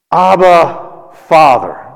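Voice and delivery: distressed cry. Acted. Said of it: "in great distress".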